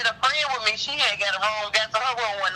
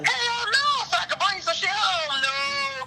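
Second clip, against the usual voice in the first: indignant hell no; 9 semitones higher, slower than usual. Real, not acted. Indignant denial.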